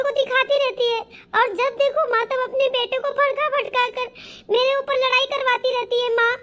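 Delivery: whiny, tearful stream of complaint. Acted. Daughter complaining to mother about her mother-in-law, tearful. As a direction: pour out grievances with mild tearfulness. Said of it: "बेटा रो क्यों रही है".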